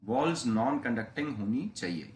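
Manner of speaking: slow, spaced dictation for notes; dictating a condition word by word. Shown as a demonstration. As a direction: spell it out slowly for students to write. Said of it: "repeats dictation".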